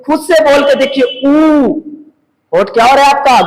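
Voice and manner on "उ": "उ" held with rounded lips; slightly raised, isolated "उ" with round lips; rounded-lip vowel. Shown as a demonstration. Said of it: "गोल हो रहा है".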